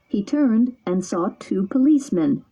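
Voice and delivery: usual speaking voice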